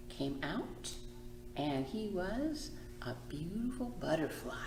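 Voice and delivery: soft ending. A narrator's reading. Librarian softly ending the story for children. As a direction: let it fall away softly.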